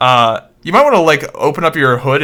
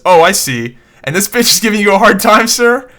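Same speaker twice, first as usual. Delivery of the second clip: snooty bank manager; 7 semitones higher, 5 dB louder than usual. Acted. Manager mocking voice in joke.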